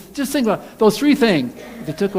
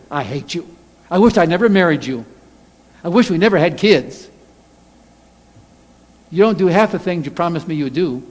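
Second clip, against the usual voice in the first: angry household remark; 4 dB louder than usual. Acted. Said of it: "things we would never say".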